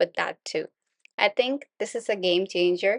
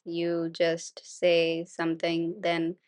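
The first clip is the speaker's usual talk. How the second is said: slow flat monotone demo; 4 dB quieter, slower than usual. Shown as a demonstration. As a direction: drone it out slowly, no tune. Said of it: "which sounds like this".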